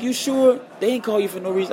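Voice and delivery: a hint of an unconvinced sister; doubting sister. Voicing his doubting sister.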